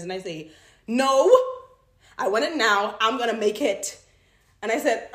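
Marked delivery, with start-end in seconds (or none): 0.9-4.0 loud, stubborn no; impatient refusal. Acted. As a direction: insist on having it now.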